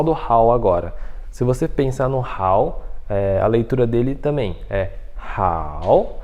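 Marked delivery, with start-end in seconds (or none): 5.2-6.2 "hao" lento, que desce e sobe; terceiro tom. Shown as a demonstration. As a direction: mergulhe o tom em "hao" e suba no fim. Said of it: "desce e sobe". ("hao" alongado, descendo e subindo)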